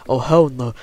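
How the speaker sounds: mock British accent. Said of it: "'cause we have an accent".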